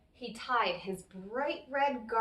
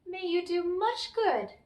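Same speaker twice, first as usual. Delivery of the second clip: leprechaun farewell; 6 semitones higher than usual. Acted.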